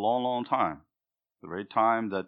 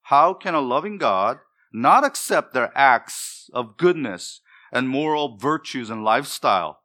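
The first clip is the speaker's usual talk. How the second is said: indignant objector; 3 semitones higher, 8 dB louder than usual. Acted. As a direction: hammer out the objector's grievance, word by word. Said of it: "you've all heard this reasoning".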